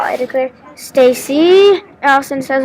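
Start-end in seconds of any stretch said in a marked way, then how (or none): 0.7-1.8 louder, drawn-out name in mild exasperation; annoyed. A narrator's reading. Allison to her worried friend Stacy, annoyed. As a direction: call the name out, fed up.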